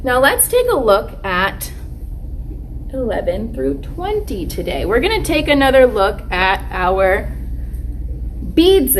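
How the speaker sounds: put-on lightly cheerful teacher voice to kids; kids show host. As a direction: talk warmly to little kids. Teacher addressing children on video.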